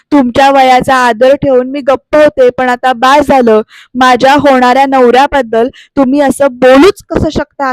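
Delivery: lightly acted firm rebuke of the older woman; firmly. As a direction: stand your ground, voice a little up. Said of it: "ठामपणाने".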